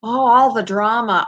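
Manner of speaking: drama with a flat a; American drama. Retold or imitated. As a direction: say drama with the a as in cat. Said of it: "I would have said drama".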